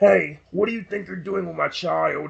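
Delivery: hushed, accusing, challenging voice. Telling viewers about a voice that came out of nowhere, imitating a deep voice. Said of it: "I actually heard a deep voice".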